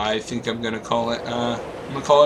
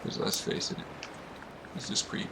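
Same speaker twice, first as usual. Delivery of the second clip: whispering; 11 dB quieter than usual. Real, not acted. Whispered aside while exploring.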